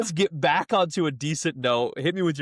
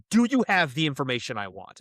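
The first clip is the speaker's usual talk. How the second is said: mock-angry clerk with a mild edge; mildly irritated imitation of a hostile clerk; 2 semitones lower than usual. DMV clerk demanding information from a customer, mock angry. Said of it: "in a really angry voice".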